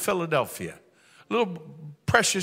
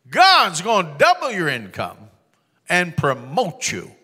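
thundering prophecy; 6 dB louder, slower than usual. Retold or imitated. Preacher prophesying over Earl, slow thundering declaration. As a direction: call it out like a revival preacher.

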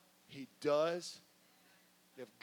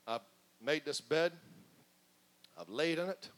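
hushed and low, stubborn self-pity; the sinner quietly insists on his bed; sulky sinner's voice; 7 semitones lower, 9 dB quieter than usual. Acted. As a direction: mutter it like a sulking sinner.

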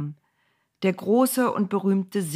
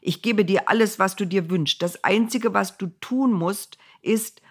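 eager king; 3 semitones higher than usual. Acted. King Balak entreats Bileam.

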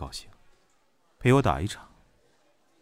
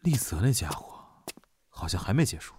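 whisper; 3 semitones lower, 4 dB quieter than usual. Real, not acted. Muttering to himself about Lize.

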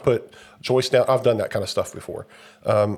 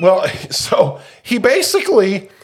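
higher and louder, slow through laughter; laughing; 9 semitones higher, 6 dB louder, slower than usual. Real, not acted. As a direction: still catching the giggles. Still laughing about the deliveryman.

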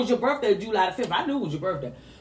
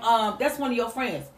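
hesitant daughter; 4 semitones lower, 5 dB quieter than usual. Retold or imitated. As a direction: hesitate as if unsure who she is. Same words, hesitant replay.

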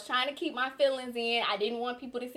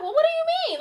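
high, louder bewildered question; retold confusion; 7 dB louder, much faster than usual. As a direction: ask it utterly thrown. Confused reply to mom.

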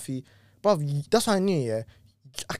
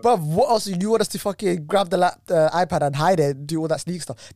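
higher and louder, real exasperation; indignant outburst; 4 semitones higher, 4 dB louder than usual. Real, not acted. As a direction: push back hard, fed up with the question. Indignant rant about hiding iPad.

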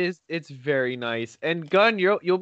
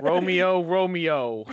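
higher, theatrical calling; mock Juliet; 3 semitones higher, slower than usual. Friend teasing about acting onstage, mock-theatrical Juliet. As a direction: play a hammed-up stage lover calling out.

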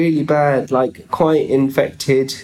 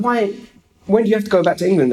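higher, fast mock interrogation; grilling official; 5 semitones higher, much faster than usual. Immigration officer questioning a solo traveller, grilling. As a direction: press the question like a border officer. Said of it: "really gave me a grilling".

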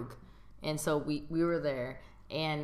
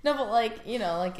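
put-on valley girl voice; 3 semitones higher than usual. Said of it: "Why are you talking like a valley girl?".

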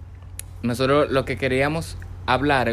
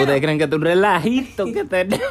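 higher, indignant rhetorical question; mock rant; 5 semitones higher than usual. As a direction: play up the outrage for laughs.

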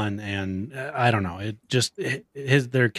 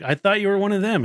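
high quick mock excuse; 11 semitones higher, faster than usual. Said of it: "He's like".

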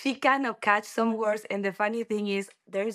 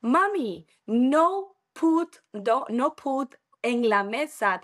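little daughter; 4 semitones higher, 3 dB louder, slower than usual. Retold or imitated. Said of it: "And she said".

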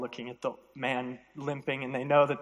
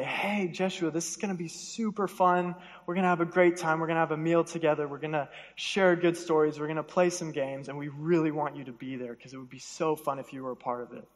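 upbeat, lightly raised-pitch imitation of inviting friends; friendly invitation. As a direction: coax a friend along with mild excitement. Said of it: "It means this kind, loving friendship".

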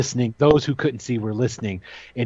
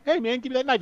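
pitched way up, breezy and offhand; casual NPC ask; 10 semitones higher, 3 dB quieter, much faster than usual. Acted. Game master voicing a guy asking for a knife, breezy and high. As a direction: toss off a quick casual request.

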